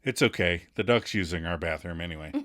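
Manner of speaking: low, soft mock-gallant reassurance; comforting. Chandler comforting embarrassed Kathy, mildly reassuring. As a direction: soothe lightly, low and soft. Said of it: "tries to comfort the fair maiden with".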